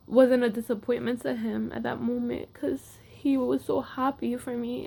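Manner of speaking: real tears, whispered; getting emotional. Real, not acted. Telling viewers how her coach was proud of her, whispering through real emotion. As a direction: voice drops to a whisper as emotion takes over. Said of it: "why I'm getting emotional now".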